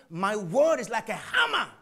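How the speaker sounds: loud, ringing shout; shouted proclamation. Acted. Preacher quoting God, booming shout. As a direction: hammer the words out.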